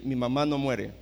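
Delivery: calm firm statement. Retold or imitated. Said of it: "me le quedé viendo y le dije".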